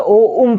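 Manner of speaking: "ओ उम" split into two short sounds, ओ then उम; wrong reading. Shown as a demonstration. Teacher showing students how many misread the syllable, wrong split "ओ उम". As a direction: read "ओ उम" choppily as two separate syllables. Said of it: "ये गलत पढ़ते हैं".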